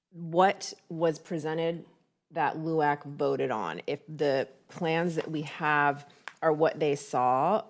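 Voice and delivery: talking while chewing gum; words around a wad of gum. Real, not acted. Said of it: "sorry, I just put gum in my mouth".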